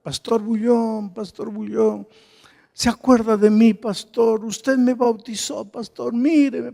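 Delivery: high pleading calls across a crowd; woman calling out. Retold or imitated. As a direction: call up to the pastor over the crowd. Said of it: "me gritaba". (llamada aguda de mujer entre la multitud)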